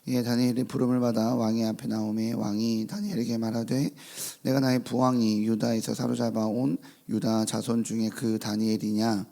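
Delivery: measured, formal Bible reading; scripture reading. Acted. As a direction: read the passage with solemn weight. Reads scripture aloud.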